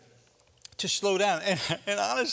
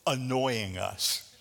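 callous disciples; 4 semitones lower, much slower than usual. Retold or imitated. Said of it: "it's like they're saying".

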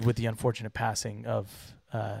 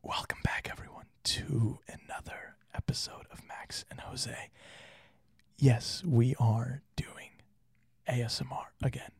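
ASMR whisper. Shown as a demonstration. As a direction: whisper close to the mic. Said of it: "since I'm choosing to do the whisper".

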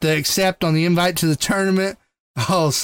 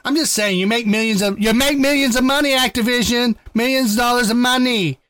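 angry rant; 5 semitones higher than usual. Real, not acted. Rant at Activision, mock outrage.

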